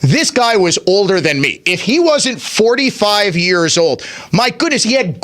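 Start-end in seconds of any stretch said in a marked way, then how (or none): none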